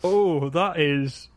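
drawn-out theatrical oh; hammed-up, very slow reaction; dramatic. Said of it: "That was dramatic".

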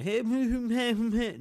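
loud, high-pitched wordless mimicry; mock jabber, high and loud. Mimics people imitating his talk.

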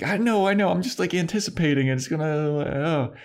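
high-pitched, hammed-up flinching; mock nervous anticipation. Willie bracing for Buffy's punch, mock nervous anticipation.

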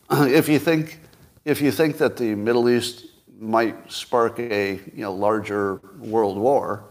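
deadpan mock sincerity; fake-earnest sarcasm; sarcastic. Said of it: "turn on my sarcasm filter".

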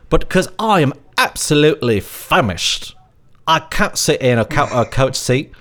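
mock British accent with emphatic swoops. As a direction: imitate a pleading British traveller's accent. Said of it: "but in his British accent".

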